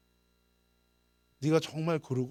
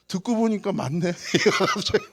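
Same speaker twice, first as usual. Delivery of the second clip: laughing; 6 semitones higher, 4 dB louder than usual. Real, not acted. Amused retelling of boy's reaction.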